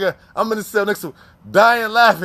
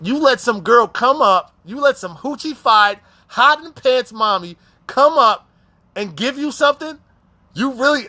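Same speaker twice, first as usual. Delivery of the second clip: slow, higher, sassy scolding; scolding nurse; 5 semitones higher, slower than usual. Retold or imitated. Nurse scolding the inmate about a girl at the festival, slow sassy scolding. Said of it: "she's like".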